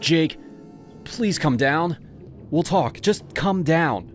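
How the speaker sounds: frightened, pleading; shaking plea. Acted. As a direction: coax him down gently. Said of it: "I was shaking so hard I could barely speak".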